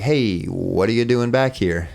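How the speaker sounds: retold surprise at an unexpected visitor; puzzled questioning. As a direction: imitate them asking, slowly and puzzled. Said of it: "inflection they had in their voice".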